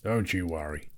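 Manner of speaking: low, gruff dwarf king. Acted. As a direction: speak it deep and grumbling. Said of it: "growled Thorin".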